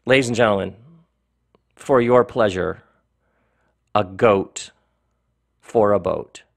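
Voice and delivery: mock-grand title announcement with long pauses; ridiculous story-reading voice. Author introduces own silly story to listeners, ridiculous story-reading voice. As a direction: present it like a showman, lightly hammed up. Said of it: "my best ridiculous story reading voice".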